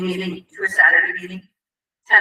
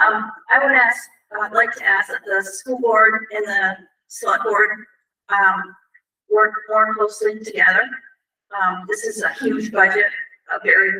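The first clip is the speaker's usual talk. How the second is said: stuffy nose. Real, not acted. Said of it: "sorry, I have a cold, so I sound stupid".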